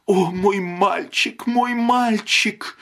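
put-on high, slow, drawn-out cry for her boy; keen over the lost son; anguished wail. A narrator's reading. Grieving mother wails for her boy, high and drawn out.

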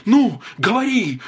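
high sharp command; loud cry. A narrator's reading. Mrs. White loudly cries at husband to make the wish. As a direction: bark it out loud. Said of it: "громко вскрикнула миссис Уайт".

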